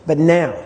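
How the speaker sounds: "now" given the weight, with a falling tune; stress on now. Shown as a demonstration. Teacher repeats the emphasis example, stress on "now". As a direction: lean firmly on the word "now". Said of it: "putting emphasis on different words".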